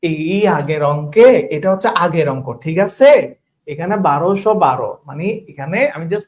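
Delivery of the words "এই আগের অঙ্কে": slowly. Real, not acted. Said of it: "খুবই আস্তে আস্তে কথা বলতেছি".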